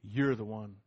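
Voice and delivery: low, soft, steady answer; quiet firm reply. Retold or imitated. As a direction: calmly turn the charge back on them. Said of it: "look them square in the eye and say".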